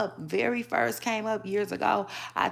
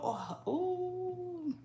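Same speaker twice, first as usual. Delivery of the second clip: surprised ooh; 12 semitones higher, 12 dB quieter than usual. Real, not acted. Shocked at the diss she reads.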